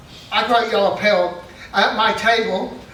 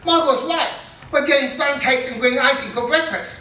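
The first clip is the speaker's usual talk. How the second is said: excited realisation; 5 semitones higher than usual. Retold or imitated.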